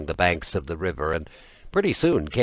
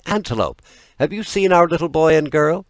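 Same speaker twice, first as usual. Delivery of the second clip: anxious parents calling across the valley, louder and higher; 8 semitones higher, 5 dB louder than usual. A narrator's reading. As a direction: call out to Antelope, searching for lost children.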